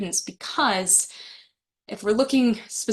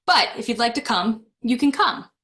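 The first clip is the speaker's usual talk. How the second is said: reluctant invitation; 2 semitones higher than usual. Shown as a demonstration. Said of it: "how I stress that word have".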